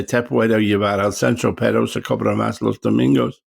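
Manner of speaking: recited Spanish line from the film Siesta. Shown as a demonstration. Recalling his film line in Spanish. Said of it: "I had to say".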